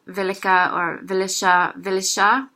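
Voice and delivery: vil ikke run together as vilika or vilisha; slangy spoken Norwegian vilisha; squished together. Shown as a demonstration. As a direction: blend vil ikke into one quick word, vilisha. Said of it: "You're gonna hear more".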